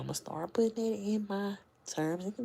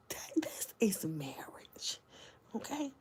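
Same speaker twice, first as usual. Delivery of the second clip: whisper; 5 dB quieter, slower than usual. Real, not acted. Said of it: "whispered lesson on marriage".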